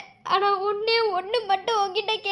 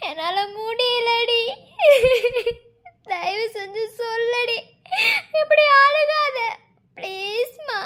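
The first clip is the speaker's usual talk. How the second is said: broken sobbing plea; slower than usual. Acted. Broken lover begs.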